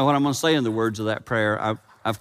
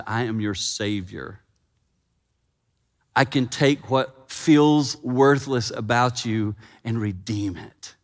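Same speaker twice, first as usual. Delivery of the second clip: gentle Savior; 3 semitones lower, slower than usual. Acted. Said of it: "a man who said".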